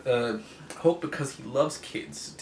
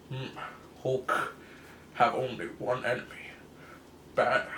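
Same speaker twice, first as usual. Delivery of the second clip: lightly voiced brute Hulk; a hint of a simple-minded monster. Hulk voiced in broken English.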